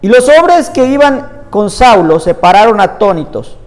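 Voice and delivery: measured, emphatic Bible reading aloud; scripture reading. Acted. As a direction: read the passage out to a congregation, phrase by phrase. Reads Bible passage aloud.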